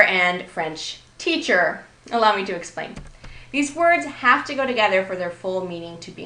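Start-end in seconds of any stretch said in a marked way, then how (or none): 0.5-1.8 French TEACHER, second word given its own beat; noun-phrase stress landing on teacher. Shown as a demonstration. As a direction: separate the words and lean on teacher. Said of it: "A non-compound version would be French teacher".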